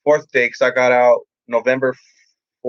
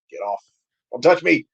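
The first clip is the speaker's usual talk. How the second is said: defensive protest; 4 semitones higher than usual. Retold or imitated. Acted rejection of unwanted hugs.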